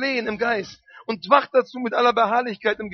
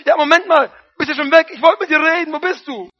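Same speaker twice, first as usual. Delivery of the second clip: louder, higher puzzled call, wait, are you gone; half-surprised divine call; God calling out; 4 semitones higher, 4 dB louder than usual. Acted. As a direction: call after someone who already left. God calling after the departed pray-er.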